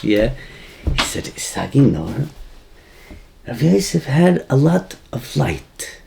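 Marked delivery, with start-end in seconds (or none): 1.4-6.0 slow, grand voice of a revered rabbi, a lightly done imitation; majestic rebbe voice. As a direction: lightly imitate the teacher's stately pronouncement, drawn out. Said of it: "in his majestic voice".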